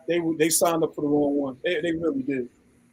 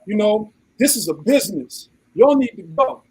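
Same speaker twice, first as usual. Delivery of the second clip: mock Karen; 4 semitones higher than usual. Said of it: "she's talking to me".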